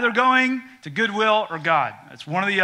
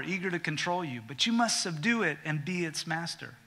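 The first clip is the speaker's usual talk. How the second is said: softer, grave; solemn warning; 5 dB quieter than usual. Acted. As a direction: intone it quietly. Reading God's warning.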